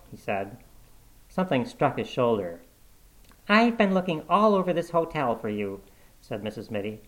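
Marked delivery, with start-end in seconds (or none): 3.5-5.8 the wife's voice, higher, reproachful; nagging wife. A narrator's reading. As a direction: scold him for hiding. The wife scolding, found him.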